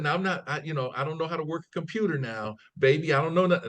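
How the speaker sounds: a hint of a sweet elderly lady calling him baby. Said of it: "She said".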